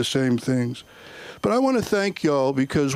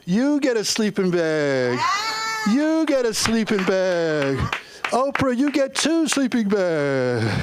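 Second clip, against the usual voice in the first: deadpan answer; 4 semitones higher, slower than usual. Retold or imitated. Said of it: "I was like".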